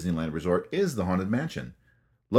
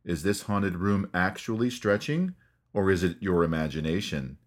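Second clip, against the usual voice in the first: taunting ghost host; 3 dB quieter than usual. Retold or imitated. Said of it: "Then he taunts you by saying".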